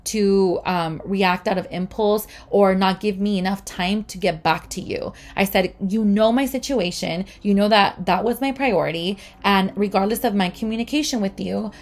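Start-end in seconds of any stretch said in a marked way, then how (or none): 0.1-5.1 firm but civil retold reprimand; polite telling-off. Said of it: "I just went off on her, it, politely". 5.8-11.7 retold firm, insistent self-defence; indignant telling-off. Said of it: "but I went off on her".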